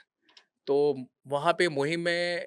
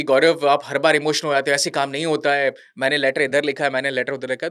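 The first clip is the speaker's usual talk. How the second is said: louder imitated officer; 7 dB louder than usual. General brushes off Gaurav's pressure.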